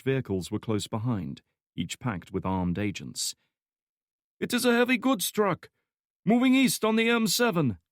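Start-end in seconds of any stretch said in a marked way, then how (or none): 4.4-7.8 radio operator voice. Acted. Agent reports truck position.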